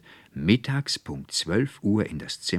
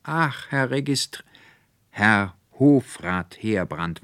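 higher, flustered stammer that corrects itself; 6 semitones higher, 6 dB louder, slower than usual. A narrator's reading. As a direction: stumble over the title in confusion. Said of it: "stammelte der Konrektor".

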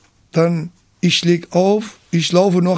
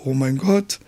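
astonished mother; 4 semitones higher than usual. Retold or imitated. Mother surprised to find son praying.

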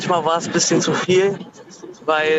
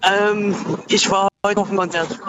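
caller on a car hands-free line; tinny phone-call sound from the motorway; bluetooth call mic; 3 semitones higher than usual. Real, not acted. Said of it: "Ich höre dich ganz schlecht".

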